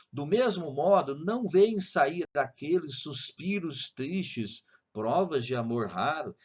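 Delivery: slow poem recital; slow reading. Shown as a demonstration. Teacher reading a sonnet to students, slowly. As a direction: take the verse slowly. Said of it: "vou ler devagar".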